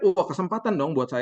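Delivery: light up at the opening; excited wah. Real, not acted. Preacher telling the congregation he saw his chance, excited.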